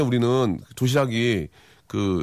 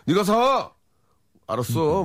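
네가 사 said high and pushy; playful order to pay; bossy demand to a friend; 5 semitones higher, slower than usual. Retold or imitated. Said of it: "대놓고 하죠". (친구에게 장난스럽게 명령하듯)

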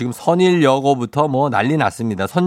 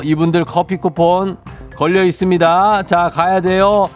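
quiz host. Acted. Radio quiz question read.

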